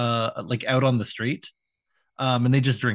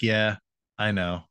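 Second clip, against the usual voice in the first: glum Bobby; 3 semitones lower than usual. Retold or imitated. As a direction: mumble it like a let-down boy. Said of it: "Bobby's like".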